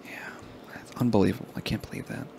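whispered, stunned disbelief; hushed disbelief. Real, not acted. Grieving Betty White with her cohost, in a whisper.

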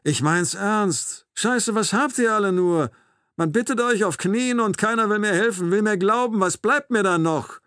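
high, loud, desperate outburst. A narrator's reading. Captor asks what is left for him, high-voiced and desperate. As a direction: let it climb into a strained high plea. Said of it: "fragt er mit hoher Stimme".

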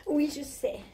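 high, breathy posh diva voice; hammed-up high society diva; rich diva character. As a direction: play a spoiled jet-set lady bragging. Same diva character continues.

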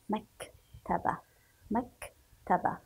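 "مكتبة" slowly as mak, pause, taba; stop on kaf. Shown as a demonstration. Teacher shows pupils the sukun, "مكتبة" broken after mak. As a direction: halt on the silent k in "مكتبة", then finish. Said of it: "لذلك سنقرأه ونقف".

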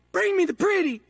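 villain howling for something pretty; demanding shout. Acted. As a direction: order it, pushing the voice up.

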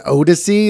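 first syllable of Odyssey said as a long OH; rhymes with the name of an R&B group. Shown as a demonstration. Defending how they say it in their head, Odyssey rhyming with an R&B group's name. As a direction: say Odyssey with an opening like "owed". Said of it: "like it rhymes with a group's name".

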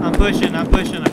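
urgent shout. Real, not acted. Pushing in a firefight.

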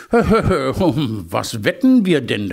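slow, amused through laughter; laughing. Acted. Hare asks about the stakes, laughing slowly. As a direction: chuckle at the bet.

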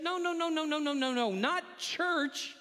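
rapid-fire protesting no's, lightly panicked; mock panic. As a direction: play flustered disciples objecting. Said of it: "maybe with panic".

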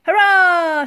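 high, drawn-out hurrah; shouted cheer. A narrator's reading. Crew cheering the admiral, shouting. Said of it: "shouted the men".

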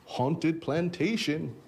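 slow, drawn-out spooky announcer; creepy voice. Acted. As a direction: draw it out like a haunted-house host. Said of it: "Creepy voice right there".

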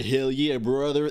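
lightly put-on American accent; attempted American accent. Shown as a demonstration. Streamer showing the only American accent he can do, light attempt. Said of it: "That's, like, all I can do".

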